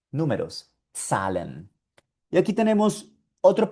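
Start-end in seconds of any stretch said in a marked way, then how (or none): 1.0-1.7 "Zahlen" with initial ts, as tsah-len. Shown as a demonstration. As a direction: model "Zahlen" softer and lower. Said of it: "otra palabrita con la Z".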